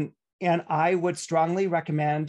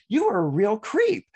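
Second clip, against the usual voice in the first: higher, louder mocking jab; 6 semitones higher, 4 dB louder than usual. Receiver hitting back after an apology, mock scornful. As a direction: kick them while they're down.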